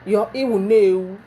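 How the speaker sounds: hissing husband. Retold or imitated. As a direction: snap back with a mild hiss. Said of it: "hisses and say".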